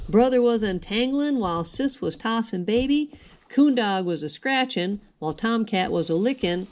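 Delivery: singsong storybook narration; reading to children. A narrator's reading. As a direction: read the rhymes gently to little ones. Reads a rhyming picture book.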